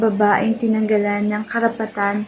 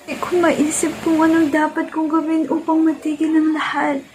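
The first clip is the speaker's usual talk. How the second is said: higher-pitched, understated distress; mild desperation; 4 semitones higher than usual. Acted. Desperate monologue, character faces abuse. (bahagyang desperado, mas mataas ang tono)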